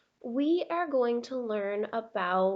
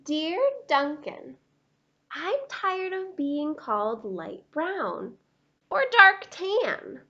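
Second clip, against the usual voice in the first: lightly voiced indignant crayon; a hint of wounded pride; proud Beige Crayon; 4 dB louder than usual. Beige Crayon complaining to Duncan, indignant and proud.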